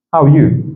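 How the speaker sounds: HOW ARE YOU linked, up then falling; intonation demo. Shown as a demonstration. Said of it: "Soit on monte ou on redescend". (HOW ARE YOU lié, intonation qui redescend)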